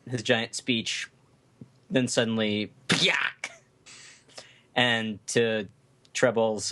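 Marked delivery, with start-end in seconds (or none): 2.9-3.5 short squeaky "pyak" cry; a tiny creature's squashed yelp; death scream. Shown as a demonstration. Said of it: "death scream of a Tontara".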